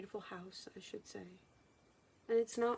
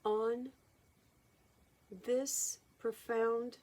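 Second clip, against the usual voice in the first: channeled Jesus. Acted. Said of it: "So I would like to call my guides".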